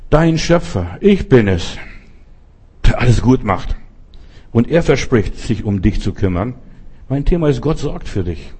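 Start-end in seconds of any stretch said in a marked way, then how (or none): 0.1-6.5 voice of God. Acted. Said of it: "sagt hier mein Gott".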